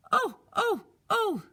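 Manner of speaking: high, drawn-out sing-song oh; high fluttering oh, oh, oh; concerned mother. Acted. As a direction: coo like a worried mom. Mother peers into mouth.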